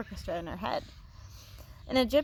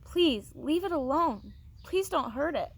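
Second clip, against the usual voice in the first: tearful plea; 5 semitones higher than usual. A narrator's reading. Martine pleading with the boys, mildly tearful. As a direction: beg them gently not to hurt it. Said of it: "She said tearfully".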